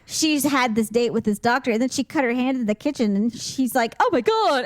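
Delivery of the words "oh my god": higher-pitched mock panicked gasp of dismay; retold freak-out. Retelling a date's reaction to a cut hand, mock panic. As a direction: act out a mild freak-out. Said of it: "he started freaking out".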